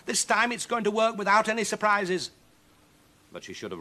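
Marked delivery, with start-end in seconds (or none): 0.1-2.3 high, loud delighted witch; gleeful witch. Acted. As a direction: crow over an easy job. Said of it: "said Huddle".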